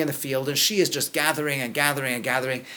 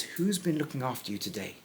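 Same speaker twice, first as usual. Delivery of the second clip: quiet retelling; 2 semitones lower, 8 dB quieter than usual. Retold or imitated. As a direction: say it back calmly and softly. Naomi's question quietly retold.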